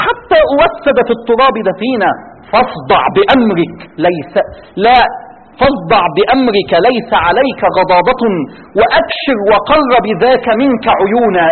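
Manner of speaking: slow, measured recital of verse; poem recitation. Acted. Preacher reciting Abu Talib's poem to the audience, slow and measured. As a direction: declaim the verse slowly.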